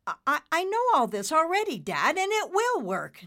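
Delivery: high, quick, loud stammered protest; a little irritated. Acted. Nimbus insisting to his dad, mildly irritated. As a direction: push back with impatience. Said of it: "with a little irritation".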